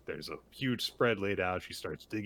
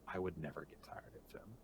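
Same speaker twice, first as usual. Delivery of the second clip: soft, hushed confiding; acted whisper; 12 dB quieter, faster than usual. Woman confiding fondness to the acupuncturist, softly half-whispered. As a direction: drop right down as if sharing a secret. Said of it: "whispers to him".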